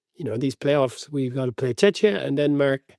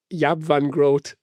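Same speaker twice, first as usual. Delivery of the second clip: slow, drawn-out Dutch name; Dutch accent; much slower than usual. Retold or imitated. Audiobook narrator falling back into Dutch for a name, Dutch accent. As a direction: lightly imitate a Dutch pronunciation. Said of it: "they kind of fall back into the".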